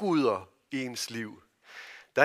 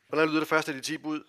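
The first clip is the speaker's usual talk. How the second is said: quicker repeat; faster than usual. Shown as a demonstration. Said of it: "Hallo, voksne".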